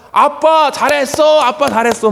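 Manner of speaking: a son calling out to his father on stage; child cheering. Retold or imitated. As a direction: cheer Dad on like a small son.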